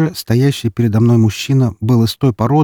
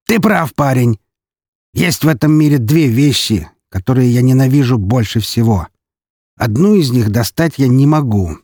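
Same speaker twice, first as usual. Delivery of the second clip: a touch of theatrical villain, higher-pitched openings; lightly voiced menacing count; 4 semitones higher than usual. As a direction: play the scarred count, lightly hammed-up. (слегка театральный голос графа)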